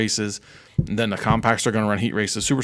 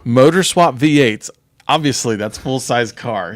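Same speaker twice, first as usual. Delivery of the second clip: slow, louder, over-explaining; mock dumbed-down explaining; 2 semitones higher, 5 dB louder, slower than usual. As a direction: lay it out slowly like it's obvious. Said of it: "You're dumbing it down".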